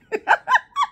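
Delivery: piercing laugh far above her voice; real delighted squeal; high squealing laugh. Real, not acted. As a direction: let out a very high shriek of laughter. Laughing at the message.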